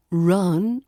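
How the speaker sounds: "run" with a long, off-target vowel instead of uh; wrong drawn-out vowel. Shown as a demonstration. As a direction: stretch the vowel of "run" away from cup. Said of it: "It's not run".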